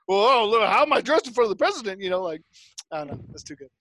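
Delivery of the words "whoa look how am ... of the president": fussing father. Retold or imitated. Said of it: "he's like".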